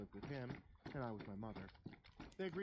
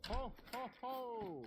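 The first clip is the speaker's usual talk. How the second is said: deep rough Santa; 13 semitones higher, 5 dB louder, much slower than usual. Acted. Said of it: "It was deep and rough".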